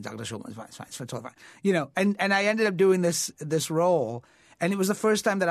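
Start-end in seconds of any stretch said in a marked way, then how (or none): 0.0-1.3 soothing. Retold or imitated. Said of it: "he was like".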